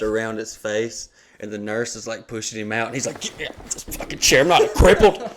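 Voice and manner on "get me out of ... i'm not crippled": slurred angry shouting from a wheelchair; imitating a drugged friend yelling; angry doped-up yell. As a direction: bark it out groggy and pissed. Doped-up friend after surgery.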